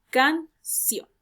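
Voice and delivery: "canción" split into CAN and CIÓN with a pause; stress on last syllable. Shown as a demonstration. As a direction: separate "canción" clearly, landing on CIÓN. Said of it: "y sion, la sílaba tónica". ("canción" por sílabas, con acento en CIÓN)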